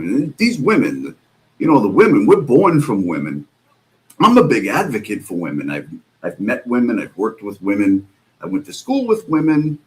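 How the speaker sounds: lightly pompous imitation of a preachy host; a hint of a self-righteous speechmaker, hammed-up a little; mocking Mike. Mocking Mike's speech about women to his co-hosts, a lightly voiced pompous parody. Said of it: "He makes sure to say it".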